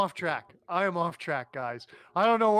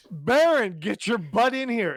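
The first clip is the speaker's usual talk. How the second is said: louder, a sharp captain's summons; commanding over comm link; 4 semitones higher, 4 dB louder than usual. Acted. Captain summons the Baron over the comm link, loud command. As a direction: order him back in, loud and firm. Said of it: "And then I'm gonna go".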